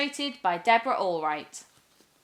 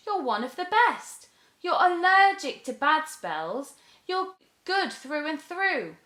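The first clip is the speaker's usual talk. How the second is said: put-on higher, eager young girl; cheerful girl; 6 semitones higher than usual. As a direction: reassure her brightly. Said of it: "The girl cried".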